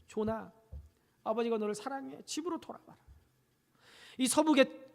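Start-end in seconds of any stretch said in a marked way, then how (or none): 0.1-3.0 soft, tender "아버지가 너를 사랑해"; tender plea. Retold or imitated. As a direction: read the father's note gently. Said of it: "아들에게 글을 남겼어요".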